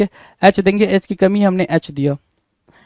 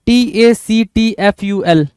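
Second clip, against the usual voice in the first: letters of the word spelt very slowly; slow spelling; much slower than usual. Shown as a demonstration. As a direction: dictate letter by letter, unhurried. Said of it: "टैक्टफुल होता है".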